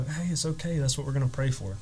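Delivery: comforting. Retold or imitated. Comforting a crying woman before prayer, soft and reassuring.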